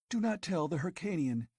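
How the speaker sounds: put-on girl begging him to keep the secret; panted. A narrator's reading. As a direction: pant the warning. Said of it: "she panted".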